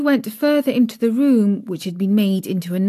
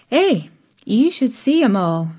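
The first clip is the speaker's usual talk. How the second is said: a lightly voiced chatty Yorkshire maid, raised; Martha's voice; 4 semitones higher than usual. A narrator's reading. Maid Martha chats to Mary, lightly voiced Yorkshire. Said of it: "she said".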